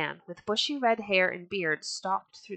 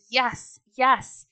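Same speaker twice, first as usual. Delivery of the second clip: loud, high cheering yeses; rowdy crowd agreement; shouting; 5 semitones higher, 6 dB louder than usual. A narrator's reading. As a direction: cheer it out over the pounding. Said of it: "pounded on the tables and shouted".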